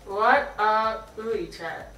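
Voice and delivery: slow and slurred, lips wide; lips stretched. Real, not acted. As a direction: force the words through a stretcher. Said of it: "This just hurts".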